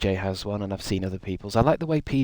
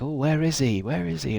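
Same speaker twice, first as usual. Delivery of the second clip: higher, eager calling out; a mock crowd impatient for the star; excited audience; 5 semitones higher than usual. Streamer imitating the eager audience, lightly excited. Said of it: "all the audience is getting all, you know, excited".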